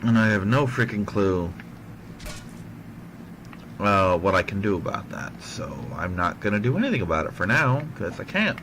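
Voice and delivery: talking carefully through a sore tongue. Real, not acted. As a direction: speak as if it hurts to move your tongue. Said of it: "my tongue really hurts".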